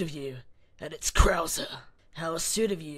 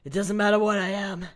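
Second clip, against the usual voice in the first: loud, higher-pitched shut-down; villain's retort; 4 semitones higher, 8 dB louder than usual. Acted. Krauser dismissing Ashley's accusation, loud and forceful. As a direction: overpower the captive's protest. Villain snaps back at captive.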